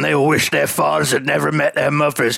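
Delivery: run-on imitation with no punctuation; salty Bristol-tinged run-on, voice put on; all in one breath. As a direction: rattle it off as one unbroken sentence. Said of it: "all in one, like, no punctuation".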